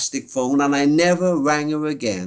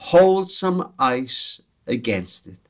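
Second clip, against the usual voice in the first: reassuring; much slower than usual. Retold or imitated. Operator soothing child.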